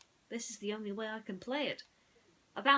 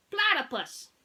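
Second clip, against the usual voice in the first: higher, loud stuttering electronic toy; stuck robot voice; 10 semitones higher, 10 dB louder than usual. Acted. Mister Spell glitches while spelling, robotic stutter. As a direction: repeat like a glitching machine.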